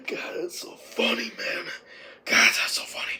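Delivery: voiceless, wheezing amusement; helpless laughter. Real, not acted. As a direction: squeeze it out breathless from laughing. Breathless from laughing at the film.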